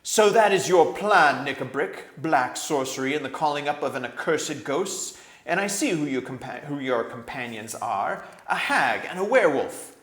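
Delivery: loud, commanding royal roar; king's voice booming like thunder. A narrator's reading. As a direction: thunder it out as an outraged king. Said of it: "rose the voice of King Caspian like thunder".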